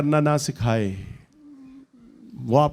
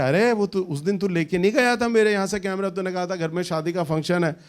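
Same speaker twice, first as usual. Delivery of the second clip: higher-pitched, mildly indignant retort; indignant protest; 4 semitones higher than usual. Retold or imitated. Preacher voices Amos confronting his friend, indignant. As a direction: act out an indignant reminder. Indignant reminder in acted quarrel.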